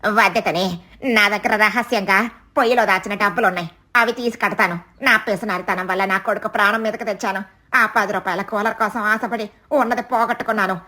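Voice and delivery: understated tearful regret; a touch of tears in the mother crow's voice. Acted. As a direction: confess the mistake ruefully. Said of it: "కన్నీళ్లతో".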